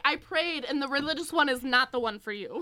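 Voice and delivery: a hint of a preachy mother; mocking mom. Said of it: "She's like".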